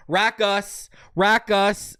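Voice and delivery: high-pitched Rackus, ending in a full 'us'; trying a pronunciation. Shown as a demonstration. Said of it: "Is it Rackus or Rackus?".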